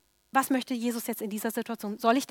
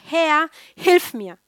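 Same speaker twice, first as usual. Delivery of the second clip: pleading cry; 5 semitones higher, 9 dB louder, much slower than usual. Acted. Woman crying to Jesus for help.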